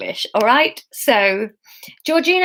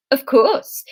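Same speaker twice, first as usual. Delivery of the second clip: put-on lightly botched Swedish accent; bad Swedish accent; 3 semitones higher, 3 dB louder than usual. Anya answers Emma's request, bad Swedish accent. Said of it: "I can't do Swedish".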